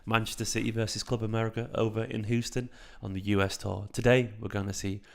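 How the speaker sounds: a light, hushed ASMR take on the match intro. Shown as a demonstration. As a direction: lean into the mic and purr the match intro. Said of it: "That's my A-, A S M R voice".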